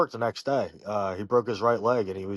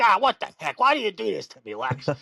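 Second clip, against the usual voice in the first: mock exasperation; 9 semitones higher than usual. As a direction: play a pranked grandfather's wailing complaint. Pranked grandfather protests, acted by grandson.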